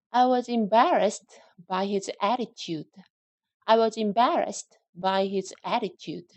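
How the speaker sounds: very slow, even model sentence; slow drill reading. Shown as a demonstration. Teacher modelling the sentence slowly for the class. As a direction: lay out each word slowly. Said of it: "한번 읽어보실게요".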